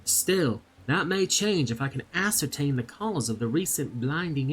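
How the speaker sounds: a hint of a southern accent, NPC storytelling. Loish Kana explaining the theft to the adventurer, light southern accent. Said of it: "I will do my best to do a southern accent".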